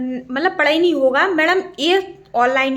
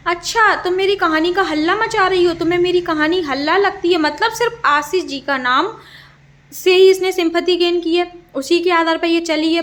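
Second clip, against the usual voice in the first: retold angry scolding; 4 semitones higher than usual. Imitating didi scolding narrator in DMs, mildly angry. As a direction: throw her accusation back in a raised, heated voice. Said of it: "तो फिर क्या बोली".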